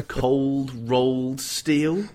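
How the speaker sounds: drawn-out, tentative suggestion, rising at the end; slow questioning pitch. Acted. Writer pitching a name for the metal, slow and tentative. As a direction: offer it very slowly as a question.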